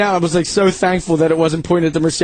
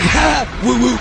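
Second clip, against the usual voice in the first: high, hammed-up whoop; 4 semitones higher, slower than usual. Buddy whooping after flipping his truck, hammed-up. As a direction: whoop like a reckless driver. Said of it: "and then he goes".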